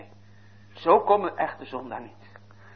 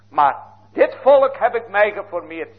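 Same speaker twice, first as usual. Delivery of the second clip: higher and louder, proclaiming; loud proclamation; 6 semitones higher, 6 dB louder than usual. Acted. Preacher proclaims the Lord's words to the congregation, loud and high. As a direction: ring out God's promise with force.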